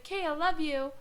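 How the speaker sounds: carefree ex signing off; breezy boyfriend. Retold or imitated. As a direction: chirp it carelessly. Ex's casual goodbye.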